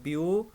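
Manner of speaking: ब्यू held alone and drawn out; isolated syllable. Shown as a demonstration. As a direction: sound out ब्यू as a separate syllable, then stop. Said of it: "syllable की मैं थोड़ी सी आपको easy example".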